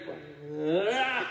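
comic roar as the chatter floods back; imitated crowd roar. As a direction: burst of mimicked crowd noise. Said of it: "just as loud as it was before".

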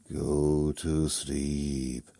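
slow, spooky vampire command; lightly voiced vampire, very slow. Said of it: "now sounding like a vampire".

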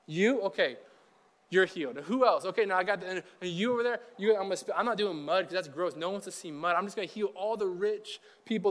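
lightly hammed-up self-serving healer; a hint of a smug celebrity healer; self-serving Jesus. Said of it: "if I was Jesus, I would have walked around and been like".

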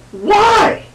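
very high-pitched, incredulous "why"; mock dismay. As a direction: cry out in exaggerated bafflement, voice leaping way up. Mock dismay at film scene.

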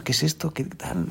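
put-on hushed, unsure child's question, almost whispered; a small girl turning the present over, wondering; puzzled little girl. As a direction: priest lightly voicing a puzzled girl. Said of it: "la niña al principio está así dudando".

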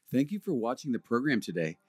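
measured, polished sign-off read; deliberate announcer delivery with lilting emphasis; programme outro announcer. Acted. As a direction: read it like a scripted broadcast closing. Reads the programme's closing announcement.

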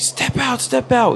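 retold high-pitched police order; commanding cop. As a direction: imitate an urgent cop command without full volume.

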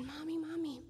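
lightly voiced excited little girl; little daughter. Daughter calling her mom, lightly voiced child.

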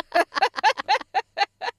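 loud, high burst of laughter; laughing. Real, not acted. Cracking up after the Volkswagen anecdote, loud laughter. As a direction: laugh hard at your own story.

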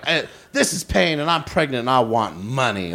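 a light put-on Payne voice; mock whiny caller voice; imitating Payne. Friend calling to beg, lightly mimicked. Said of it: "Payne will call me and be like".

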